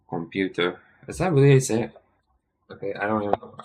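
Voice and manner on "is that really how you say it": incredulous. Real, not acted. Doubting pronunciation.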